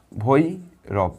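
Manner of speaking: breathy whispered ভৈরব, stretched slow. Shown as a demonstration. Teacher whispering ভৈরব slowly to the class. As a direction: breathe the word ভৈরব softly. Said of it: "কটা দমে উচ্চারণ করছি".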